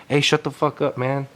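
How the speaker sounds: mildly angry imitated warning; getting mad. Dude confronting his tripping friend at a party, getting mad. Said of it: "getting mad now".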